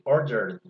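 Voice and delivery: "ordered" said as order plus a plain D, no extra syllable; "ordered" ends in a voiced D with the E dropped; "ordered" as two syllables, the E silent. Shown as a demonstration. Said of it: "simplemente order y luego la D".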